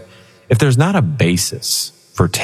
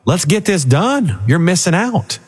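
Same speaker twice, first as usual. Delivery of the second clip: devil voice; 9 semitones higher, slower than usual. Retold or imitated. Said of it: "He's like".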